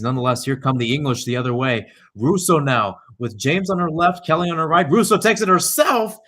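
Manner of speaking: excited play-by-play. Real, not acted. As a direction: call the run with rising excitement, peak on the shot. England attack building on goal.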